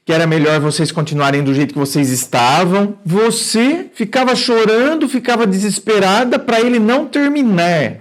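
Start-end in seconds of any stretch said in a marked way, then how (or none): 3.1-8.0 incredulous retelling. Retold or imitated. Psychologist repeating the viewer's letter in disbelief. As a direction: replay it as if it cannot be true. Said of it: "Eu que tô ficando doido aqui".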